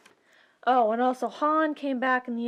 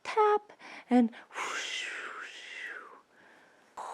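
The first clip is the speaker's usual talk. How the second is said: whispered effects; 9 semitones higher, 6 dB quieter, slower than usual. Retold or imitated. Lightsaber sound effects.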